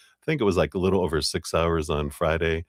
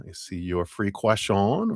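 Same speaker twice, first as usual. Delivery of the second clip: put-on French accent, not very good. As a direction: say it in a playful mock French accent. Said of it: "like, my French accent".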